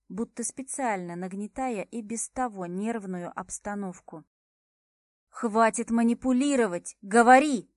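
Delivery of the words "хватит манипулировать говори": loud demand building to a shout on the last word. Acted. Heroine tired of Max's games, shouting her demand. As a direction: order him to speak, full force. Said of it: "потребовала я".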